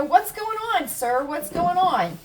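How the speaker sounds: high, sing-song voice for the cat; pet talk. Retold or imitated. Owner calling up to her trilling cat, high coaxing pet talk. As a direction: coo up the stairs at the cat.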